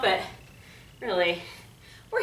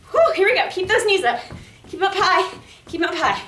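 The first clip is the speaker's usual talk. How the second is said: barking gym coach; 6 semitones higher than usual. Real, not acted. Coach urging during high knees.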